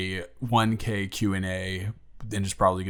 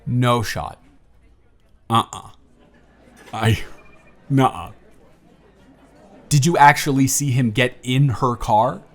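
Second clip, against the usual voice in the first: put-on friendly, teasing young man on a first date, livelier and louder than the intro; charming blind date; 7 semitones higher, 9 dB louder than usual.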